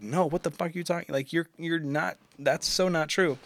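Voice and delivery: high, protesting denial without full volume; retold defensive screaming. Boyfriend defending himself against accusations, mock yelled protest. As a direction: act out indignant self-defense, mildly. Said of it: "I was just screaming to try to defend".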